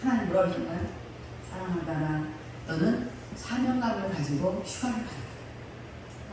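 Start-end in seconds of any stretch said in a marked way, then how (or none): 1.5-6.3 low, hushed, slow solemn voice; God's voice. Retold or imitated. Preacher voicing God telling her to go, hushed.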